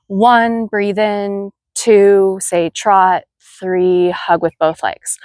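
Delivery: rhythmic counted cues. Shown as a demonstration. Instructor cueing a rider's walk-to-trot, rhythmic counted cues. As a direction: count each cue on a steady beat. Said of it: "give them in a more rhythmic way".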